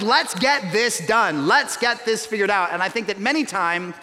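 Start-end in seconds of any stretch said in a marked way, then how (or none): 0.0-2.7 mock impatience. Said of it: "I like things done quickly".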